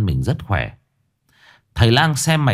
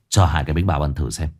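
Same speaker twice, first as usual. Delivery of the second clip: curt magistrate; 6 semitones lower, faster than usual. Acted. Magistrate orders food.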